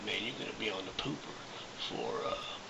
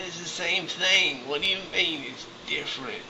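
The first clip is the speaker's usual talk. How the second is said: louder and much higher, slowed, arguing; indignant outburst; 10 semitones higher, 5 dB louder than usual. Retold or imitated. Arguing with the dispatcher, loud and indignant. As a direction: fire back at the dispatcher indignantly. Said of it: "I said".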